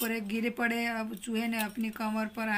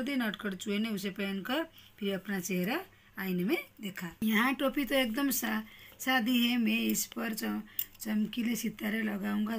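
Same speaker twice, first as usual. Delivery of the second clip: put-on lively storybook reading for young pupils; teacher reading a class-two story aloud; reading a story to children.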